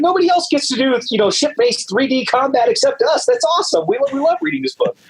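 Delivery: the author imitates submariner fans praising airship combat; imitating excited fans. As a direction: play the thrilled submariner readers. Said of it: "'cause they're like".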